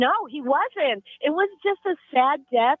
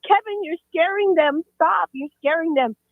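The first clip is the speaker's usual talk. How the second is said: higher, stern scolding; scolding the ghost; 6 semitones higher than usual. Retold or imitated. Mom scolding the ghost of her son, higher. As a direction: tell the ghost off. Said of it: "She's like".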